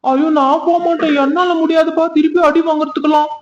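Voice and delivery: high-pitched panicky protest; alarmed refusal. Acted. Called over and fearing another beating, alarmed refusal.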